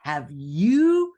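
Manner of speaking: put-on high, loud, teasing girl-talk voice; sassy mocking mentor. Mentor teasing the author about her homework, loud and high. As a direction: play the blunt mentor, pitched high and loud. Mentor's blunt question, imitated.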